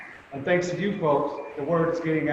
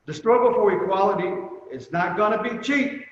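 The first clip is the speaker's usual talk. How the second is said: quoting a stern elder, a bit higher and firm; stern manner; 4 semitones higher than usual. Retold or imitated. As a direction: lay down the warning like a strict mentor. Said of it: "as he would say in his stern manner".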